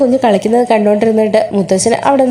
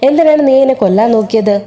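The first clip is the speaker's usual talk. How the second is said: usual speaking voice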